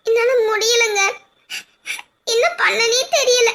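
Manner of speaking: wife blaming herself in tears; tearful despair. Acted. Wife crying.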